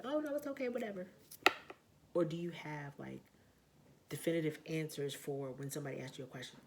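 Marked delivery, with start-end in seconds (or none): 0.0-1.1 high, breezy pushover voice, pitched way up; mock pushover. Mocking an indecisive person for the viewers, high and breezy. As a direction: lampoon someone who never picks. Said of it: "the type of person that be like".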